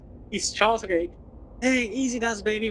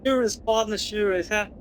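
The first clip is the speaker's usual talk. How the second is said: cowboy voice. Acted. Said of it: "Gabby doesn't talk like that".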